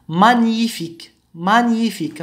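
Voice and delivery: مانيفيك with gn merged into "ny"; careful مانيفيك, "ny" in the middle. Shown as a demonstration. Teacher repeats an example of the rule, "ny" in مانيفيك. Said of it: "تنطق ني".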